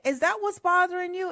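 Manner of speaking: quick high motherly disbelief; mom incredulous. Retold or imitated. Mom learning why her daughter cried, high quick disbelief. Mom voiced in retold story.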